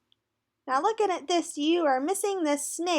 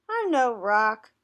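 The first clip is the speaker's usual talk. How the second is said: chuckling; 3 semitones lower, 4 dB louder, slower than usual. Acted.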